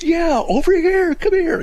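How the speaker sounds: loud, drawn-out high mock shout; imitated yelling. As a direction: imitate an exasperated man yelling across the street. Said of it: "This guy's yelling at me".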